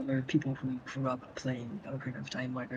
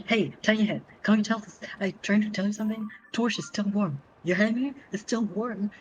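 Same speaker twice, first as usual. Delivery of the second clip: higher, lightly voiced sassy fairy; a hint of a rude fairy; 6 semitones higher than usual. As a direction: talk down to him like a fairy. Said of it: "And in French, it's".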